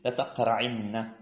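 "لتقرعن" slowly, short i before held n; short kasra, doubled nun. Shown as a demonstration. Teacher showing the derived form, "لتقرعن" slowly with doubled n. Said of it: "وأبدلناها بكسرة".

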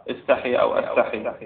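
استحي with initial "i", then أستحي with initial "a"; two alternative readings. Shown as a demonstration. Teacher unsure of the reading, weighing استحي "istahi" against أستحي "astahi". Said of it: "ما أدري شلون أقرأها".

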